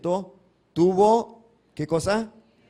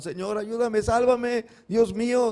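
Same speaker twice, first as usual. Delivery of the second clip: mock cry for help; 6 semitones higher than usual. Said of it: "de perdido gritan".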